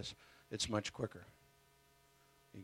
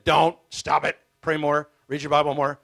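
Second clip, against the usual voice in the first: mocking shout; 2 semitones higher, 13 dB louder than usual. Mocking church's stock advice.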